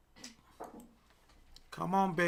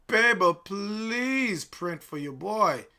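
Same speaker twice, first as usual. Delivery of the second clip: pleading; 5 semitones higher, 9 dB louder, much slower than usual. Real, not acted. Begging the trade to pay.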